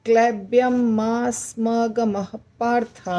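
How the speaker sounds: क्लैब्यम मा स्म गमः पार्थ recited slowly in one breath up to पार्थ; slow recitation. Shown as a demonstration. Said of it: "पार्थ तक बोलना है एक साथ". (श्लोक का धीमा पाठ)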